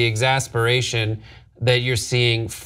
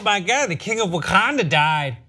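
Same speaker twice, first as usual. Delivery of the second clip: retold gasping-fan reaction, higher pitch; mock shock; 6 semitones higher than usual. A fan retelling their reaction to a recap, mock shock. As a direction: play up the shocked realization.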